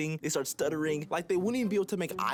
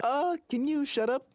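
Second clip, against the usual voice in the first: annoyed teacher; 8 semitones higher than usual. Acted. Annoyed teacher snaps at class.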